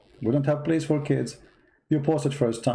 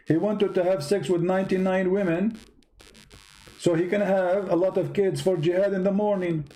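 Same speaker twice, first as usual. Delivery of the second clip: higher, sarcastic preachy lecture; mocking sermon; 5 semitones higher than usual. Real, not acted. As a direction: lay the sarcasm on thick. Mocks caller about saying Inshallah.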